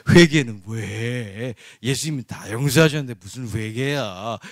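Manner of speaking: lightly voiced smooth false teacher; heretic's voice. Preacher imitating a heretic telling believers sin is fine, lightly mocking. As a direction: coax like a heretic excusing sin. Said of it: "여기서 이단은".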